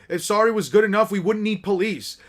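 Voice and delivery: brisk, indignant comeback; acted mild telling-off; scolding retort. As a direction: reject the apology with some force.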